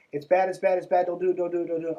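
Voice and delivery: lightly mocked stern warning; mock scolding. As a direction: chant it like a scold. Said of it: "mocking church warnings".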